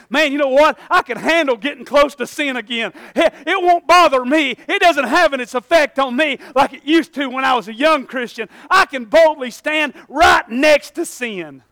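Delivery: mock overconfident Christian. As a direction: puff up like a cocky old believer. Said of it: "Somebody said".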